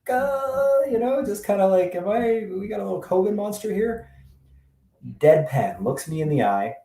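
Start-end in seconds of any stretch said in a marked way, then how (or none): 0.1-4.1 high, tentative teasing question; mock-careful question. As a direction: probe delicately with a raised voice. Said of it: "finally, I'm like".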